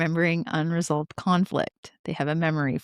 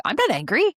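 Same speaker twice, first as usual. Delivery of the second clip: higher, indignant imitation of a husband; mock angry denial; 8 semitones higher, 4 dB louder than usual. Husband denies his anger to his wife, mock indignant. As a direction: protest it with playful, raised-pitch irritation. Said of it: "with such anger behind it".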